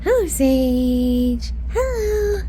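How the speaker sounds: slow, sing-song hello. Real, not acted. Mother greeting baby Sage, sing-song. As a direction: stretch the hello to a little one.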